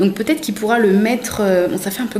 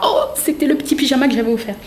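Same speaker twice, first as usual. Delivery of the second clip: quick, higher delighted recognition; imagined gift-giver reacting; 4 semitones higher, faster than usual. Vlogger voices the gift-giver seeing the photo, mock delighted. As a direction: play the giver spotting their own gift. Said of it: "tu diras".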